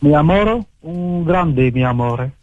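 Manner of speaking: put-on Spanish lover's accent. Caller wooing a woman on request, Spanish accent. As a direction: declare love in a mock Spanish accent. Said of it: "Fais-moi un petit accent espagnol".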